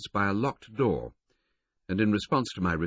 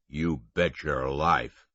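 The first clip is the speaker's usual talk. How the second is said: Canadian drawl; 3 semitones lower, much slower than usual. A narrator's reading. Conductor assuring Tommy, slow Canadian confidence. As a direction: lean into the confident Canadian phrase.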